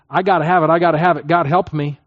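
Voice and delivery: a hint of desperate clinging, half-acted; anxious grasping. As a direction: repeat it like a fretful grab. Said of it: "actually thinking".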